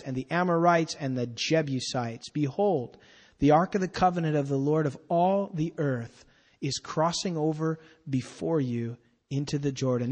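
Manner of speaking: solemn scripture read to the congregation. Acted. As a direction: read the verses out with weight. Reads scripture aloud.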